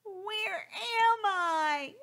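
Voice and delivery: high, slow, bewildered chick; lost and small, asking slowly; high slow forlorn bird voice; lost baby bird. Acted.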